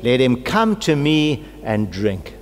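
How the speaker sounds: a preacher voicing Jesus crying out; loud proclamation. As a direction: call out the invitation, rising high on the first line. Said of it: "Jesus stood in a loud voice".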